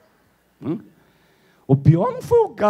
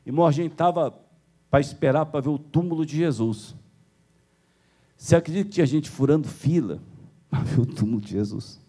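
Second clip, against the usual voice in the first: usual speaking voice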